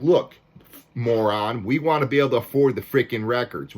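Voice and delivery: exasperated telling-off, loud attack on the first word; fired up. Real, not acted. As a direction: tell them off, worked up. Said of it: "I'm a little fired up about this".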